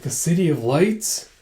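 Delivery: slow "City of Lights" rising at the end; drawn-out, rising "City of Lights"; questioning echo. Acted. Girl echoes in wonder.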